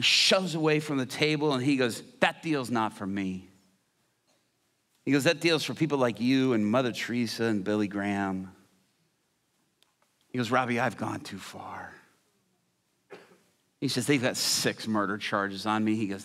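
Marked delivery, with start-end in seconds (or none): 2.2-3.5 low, slow hardened inmate refusing; inmate's voice. Retold or imitated. Preacher voicing a hardened inmate, low and slow. 5.2-8.5 inmate's voice. Retold or imitated. Inmate Hitler speaking. 10.5-11.9 inmate's voice. Retold or imitated. Inmate Hitler confessing. 14.1-16.0 inmate's voice. Retold or imitated. Inmate Hitler confessing.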